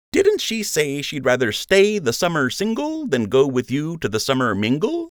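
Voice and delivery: high, teasing smirking question. A narrator's reading. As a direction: grin while needling him.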